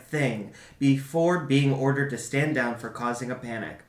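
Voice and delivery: documentary-style teaser read; dramatic narration. Acted. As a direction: build suspense like a narrator. Reads a dramatic intro.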